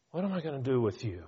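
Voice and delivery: quick, weary sigh of exasperation; tossed off fast like a fed-up parent; exasperated. Retold or imitated. Preacher voicing God's exasperation, quick and tired. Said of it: "You can almost hear the exasperation".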